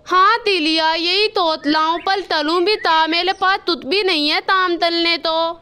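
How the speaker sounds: lisped, "अथा दो तल" for "अच्छा तो सर"; lisping crow. Acted. Kalu crow to the doctor, lisping after the surgery. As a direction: say "थाता" with a childlike lisp. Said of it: "आपकी आवाज़ बिल्कुल भी अच्छी नहीं लग रही।".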